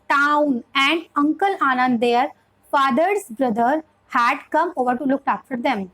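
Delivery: slow, separated words and short phrases; slow teaching read. Shown as a demonstration. Teacher demonstrating reading for a young child, slow and careful. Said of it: "syllable वे में हमें पढ़ाना चाहिए".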